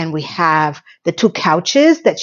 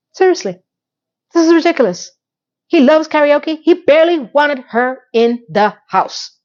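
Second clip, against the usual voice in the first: pitched up in disbelief; incredulous; 6 semitones higher than usual. Real, not acted. Vlogger reacting to Duncan loving karaoke, incredulous. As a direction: exclaim at the absurdity. Outraged commentary.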